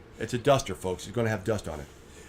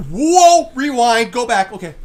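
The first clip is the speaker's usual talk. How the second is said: surprised; 5 semitones higher, 8 dB louder, slower than usual. Retold or imitated. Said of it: "I'm like".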